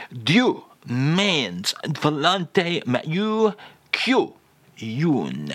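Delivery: slow, drawn-out mock French phrase; "Dieu means volonté mieux que une" stretched out with a comic French lilt; fake French phrase. Shown as a demonstration. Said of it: "And again, Charles".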